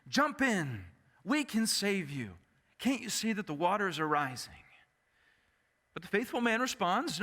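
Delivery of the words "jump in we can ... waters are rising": retold shout. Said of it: "they shout out to him".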